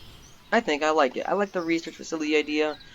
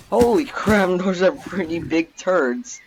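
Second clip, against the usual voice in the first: shocked laugh; 6 semitones higher, 6 dB louder, slower than usual. Real, not acted. Sees polar bear droppings.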